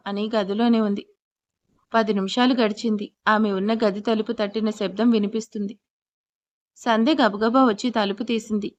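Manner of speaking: usual speaking voice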